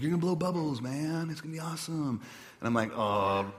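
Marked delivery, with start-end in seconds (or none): 0.0-2.2 upbeat spiritual director. Retold or imitated. Pastor imitating the director pitching bubble blowing, higher upbeat mimicry. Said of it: "He's like". 2.9-3.5 low, unimpressed "oh"; mock exasperation with an eye roll; eye-rolling groan. Pastor retelling his reaction to bubbles, eye-rolling and unimpressed. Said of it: "eye roll".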